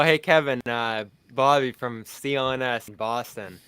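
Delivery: retold intro with a hint of Boston accent. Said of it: "really came out with the, with the accent".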